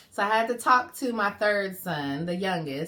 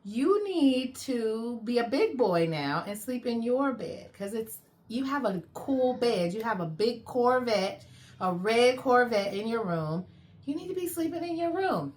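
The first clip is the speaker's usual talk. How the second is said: coaxing mom voice; 4 semitones higher than usual. Retold or imitated. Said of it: "And I said".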